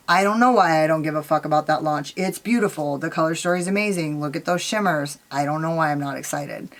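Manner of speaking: low, soft, deflated admiration; unexcited. Retold or imitated. Vlogger voicing her indifference to a beautiful launch, unexcited. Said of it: "This video is about excitement versus".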